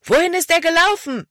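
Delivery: high-pitched shouted question; loud call. A narrator's reading. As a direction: call out urgently to the gang. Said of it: "rief Caleb laut".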